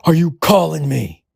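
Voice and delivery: high-pitched imitation of an angry scream; mock screaming. Furious prank-call victim telling the caller off, mock screaming. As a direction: imitate an outraged yell, pitched well up. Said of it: "They'd be screaming".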